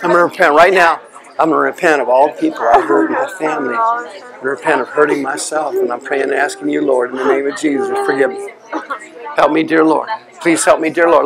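softly begging forgiveness; soft pleading prayer. Acted. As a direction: hush down and plead with God, near tears. Leads a tearful soft prayer.

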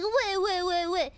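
mocking crybaby wah-wah; fake-cry to tease the whiners. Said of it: "Always crying".

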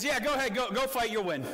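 tossed-off, flippant go-ahead. Acted. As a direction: wave it off lightly, falling away at the end. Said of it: "Kind of flippantly".

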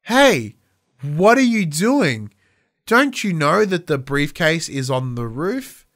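imitating a flat, unnatural line reading; mock stilted delivery. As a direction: read it like a bored, unconvincing actor. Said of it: "It was like".

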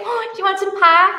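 high, light Texan pie; a fond nod to the stepmom's pie; Texas accent. Retold or imitated. Family imitating the stepmom, Texas accent. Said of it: "every time we're like".

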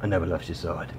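lightly voiced tiny spirit, low and soft; a little shoulder sprite speaking softly; pixie. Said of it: "a little voice on your shoulder".

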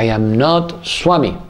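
slow, grave reply; calm, firm correction; serious master. Retold or imitated. Sai Baba repeating himself to the disciple, slow and serious.

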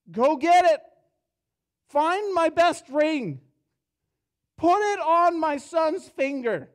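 an elated father ordering a party, slow and loud; overjoyed father. Acted. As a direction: call for the robe and ring like a father beside himself with joy. Father welcomes lost son home.

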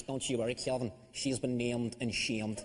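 imitating a man who sounds like he has someone in his boot; chilling menace. A stranger reassuring the comedian, low and slow, with menace. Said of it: "he said it in a way as if he had her in the boot".

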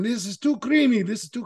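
high-pitched mock gripe of a restaurant guest; imitated complaining customer. Fussy diner complaining to the waitress about his sauce, imitated high-pitched whine. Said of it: "That's what he sounded like".

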